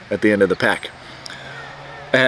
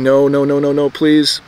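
pleading; 2 semitones higher than usual. Retold or imitated. Dreading the ribbon he's handed.

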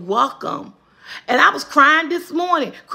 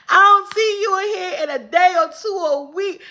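higher, speaking through laugh-tears; laughing teasing; 5 semitones higher than usual. Real, not acted. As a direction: tease while still laughing.

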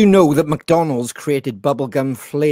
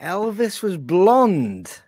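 impression of a singer; much slower than usual. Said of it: "He's been practicing that all day".

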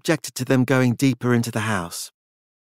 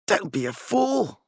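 higher, slow and scornful; dismissive Francis; 8 semitones higher, 3 dB quieter than usual. A narrator's reading. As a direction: brush her off, lightly voiced.

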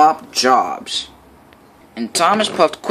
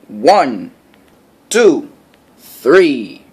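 calling the count; 5 dB louder, much slower than usual. A narrator's reading. Photographer counts for photo.

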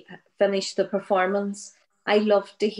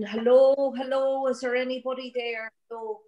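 retold calling out; 4 semitones higher than usual. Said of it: "And they were shouting".

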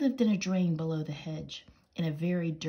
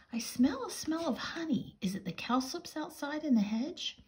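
much higher, sniffing mouse voice; prim mouse voice; 10 semitones higher than usual. Acted.

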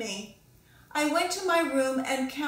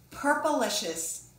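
the title said slowly and grandly, falling at the end; slow title announcement; slower than usual. Acted. Author announcing the book title to young listeners, slow and grand. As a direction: present the book's name to the children like a show opening.

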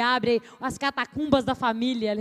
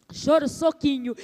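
punchy cry demo. Shown as a demonstration. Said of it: "Choro número?".

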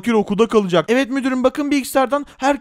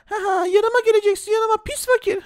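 taunting bully; 10 semitones higher than usual. Pretend. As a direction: drag out the insult like a spoiled brat.

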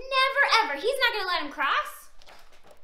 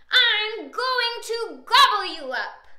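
slow, loud, raised troll threat; threatening troll; 4 semitones higher, 8 dB louder than usual. A narrator's reading. Troll threatening to gobble Middle Billy, mock menace. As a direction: threaten slowly and loudly as the troll.

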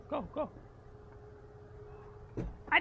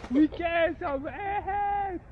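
slow, drawn-out excited cheer, louder; 6 semitones higher, 7 dB louder, much slower than usual. Real, not acted. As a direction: whoop it out, thrilled, stretching every word. Excited candy plan.

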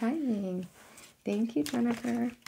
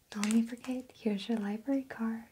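library whisper. Acted. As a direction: hush it like a librarian. Library roleplay, whispered reminder.

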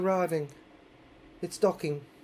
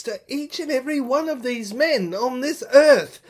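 loud, raised, frantic retelling; imitating the women's angry, raised demands; retold hysterical women; 2 semitones higher, 6 dB louder than usual. Amazon women shouting their demands at him, loud and raised. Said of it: "they were getting quite mad, screaming, hysterical".

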